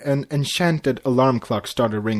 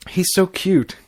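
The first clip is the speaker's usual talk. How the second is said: high squeal of delight; aunt squeaking over the newborn; squeaky; 7 semitones higher, 4 dB louder than usual. A narrator's reading. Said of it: "Cadance squeaked".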